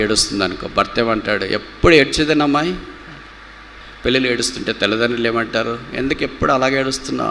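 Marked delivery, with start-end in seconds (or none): 1.4-2.8 high-pitched mock nagging; exasperated scolding. Husband to his crying wife, exasperated scolding. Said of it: "ఇలా తిట్టేవాళ్ళే ఉంటారు". 5.9-7.3 quick, higher-pitched mock telling-off; impatient scolding. Parent to a crying daughter, impatient scolding. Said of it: "ఇలా తిట్టేవాళ్ళే ఉంటారు".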